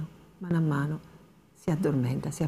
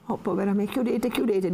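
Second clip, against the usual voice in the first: frightened plea; 5 semitones higher than usual. Acted. Lucia panics, asks to lock.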